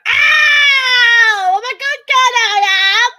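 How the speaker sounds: loud, high, strangled mock cry; mock choking yell. Imitating Eliza choking on a marble, loud and high. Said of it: "she makes a weird sound".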